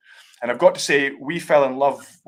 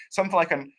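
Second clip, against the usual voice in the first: Armagnac said the Scottish way as "Armagnaise"; Scottish-accented French; 5 semitones higher than usual. Shown as a demonstration. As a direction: try the French word in a broad Scottish accent. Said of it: "forgive my Scottish accent here".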